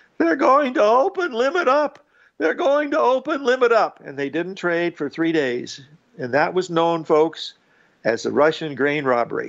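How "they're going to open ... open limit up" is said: quavering, quivering voice pitched very high. Retelling a man who comes on three minutes before the open, imitating his quivering voice. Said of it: "he's quivering in his voice".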